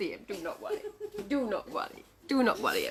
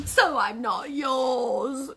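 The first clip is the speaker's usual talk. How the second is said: sorrowful egg; 3 semitones higher, much slower than usual. Acted. Egg laments it is not theirs.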